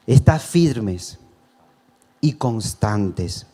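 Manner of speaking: each word drawn out, very slow; reading First Corinthians to the congregation, very slow and solemn; slow scripture reading. Real, not acted. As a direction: weigh every word of the verse. Reading scripture verse slowly.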